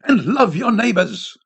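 solemn exhortation. A narrator's reading. Priest's final word to the people, slow exhortation. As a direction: exhort them slowly, stretching the words.

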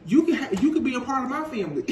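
fast, laughing through a man's words; laughing mock quote. A boyfriend making his offer to his partner, fast and laughing. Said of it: "This man is like".

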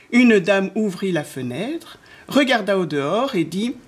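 drawn-out phrases that swoop up as things fly; children's story narration. A narrator's reading. Narrator telling how the wind blew, lilting storytelling. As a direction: tell it with suspense to small children.

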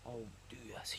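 hushed, breathless whisper at the sight of a fish; excited whisper. Real, not acted. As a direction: whisper so you don't spook the perch. Spotting a big perch, excited.

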